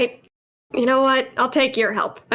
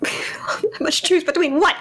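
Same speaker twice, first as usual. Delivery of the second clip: whispered disbelief; 4 semitones higher, slower than usual. Real, not acted. Player reacts in disbelief.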